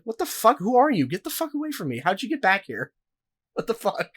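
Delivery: high, loud mock freak-out; incredulous outburst. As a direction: act like a stranger just cornered you. Imagined reaction to stranger.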